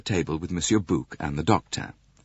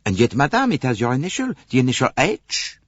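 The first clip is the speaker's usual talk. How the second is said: louder, deliberate accusation; pointed Poirot; 5 semitones higher, 4 dB louder than usual. A narrator's reading. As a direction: lay down the proof firmly. Poirot confronts with evidence.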